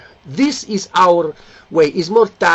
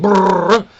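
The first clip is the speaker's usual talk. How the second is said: engine brrr; 3 semitones higher than usual. Retold or imitated. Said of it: "the big acceleration for the vibration".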